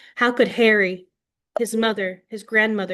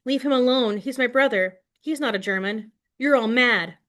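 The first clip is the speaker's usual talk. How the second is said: raised, higher cry of protest; screaming; 4 semitones higher than usual. Acted. Girl defending Harry from the mob, a mild raised scream. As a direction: defend your friend, voice pitched up. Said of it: "I scream".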